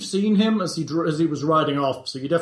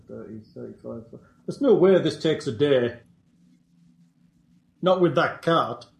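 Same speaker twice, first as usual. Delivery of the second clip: lightly voiced goblin, broken speech; a hint of a simple goblin; 5 semitones lower, faster than usual. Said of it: "That should make easier goblin voices".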